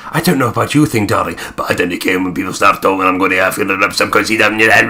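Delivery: a light mock Scottish accent that grows a little as it goes. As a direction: tease her by half putting on a Scottish accent. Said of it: "getting more and more Scottish".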